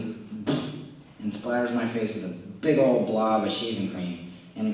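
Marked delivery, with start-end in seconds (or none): 0.0-0.8 spray noise. Retold or imitated. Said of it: "And he goes".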